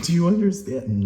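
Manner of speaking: loud, high demanding question; shout. Real, not acted. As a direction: yell it at them. Yelling at the listener.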